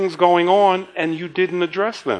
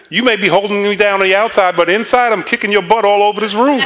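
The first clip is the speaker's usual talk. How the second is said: higher-pitched playful threat, breaking into laughter; mock defiant comeback; 4 semitones higher, faster than usual. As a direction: imitate a feisty wife's retort. Wife's retold comeback while pinned down.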